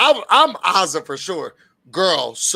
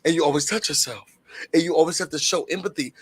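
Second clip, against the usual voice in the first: soft mentor advice; 3 semitones lower, 3 dB quieter than usual. Retold or imitated. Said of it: "she was like".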